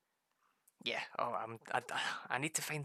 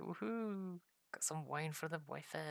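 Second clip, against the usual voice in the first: mock woohoo; 5 semitones higher, 4 dB quieter than usual. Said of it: "I'm like".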